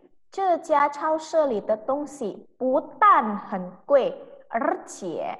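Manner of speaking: very slow, syllable by syllable; slow model reading. Shown as a demonstration. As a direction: dictate it slowly to the class. Teacher repeats whole sentence. (membaca sangat pelan)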